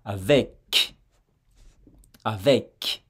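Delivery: "Avec" with a clear final k sound; final consonant demo. Shown as a demonstration. Teacher to learner, showing the spoken consonant. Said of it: "si je prononce ce mot tout seul".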